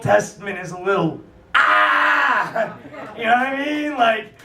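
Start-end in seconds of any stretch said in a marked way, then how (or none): 1.5-2.8 short crazed "ah!"; mock crazy cry. Comedian showing the crowd Old Testament craziness, mock crazy cry. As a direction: blurt a mock-mad cry.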